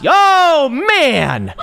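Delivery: real mock-furious outburst on stream; pissed off yelling. Real, not acted. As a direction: let the rage boil over. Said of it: "I'm getting pissed off today".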